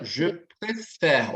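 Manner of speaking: "préfère" slowly with an open è in the last syllable; teacher carefully modelling the open vowel in "préfère". Shown as a demonstration. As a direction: stretch "préfère", opening the second e. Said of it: "então som aberto".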